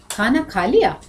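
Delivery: "खाना खा" level, then a falling swoop on "लिया"; meaning by intonation. Shown as a demonstration. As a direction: let "लिया" jump up and fall. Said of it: "देखो कितने अर्थ हो गए".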